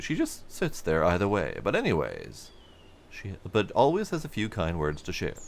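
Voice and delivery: a hint of a welcoming foreman; friendly supervisor. Player voicing a supervisor greeting a traveler, hearty. NPC dialogue.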